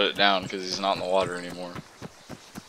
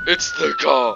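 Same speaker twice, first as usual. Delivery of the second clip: very high, loud shriek of alarm; screeching warning; alarmed shout; 6 dB louder, slower than usual. Acted. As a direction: raise the alarm at full pitch. Cops show up, alarm.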